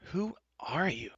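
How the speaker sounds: high, slow, demanding cry. Acted. Taryn confronting the enchantress, crying out. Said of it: "Taryn cried".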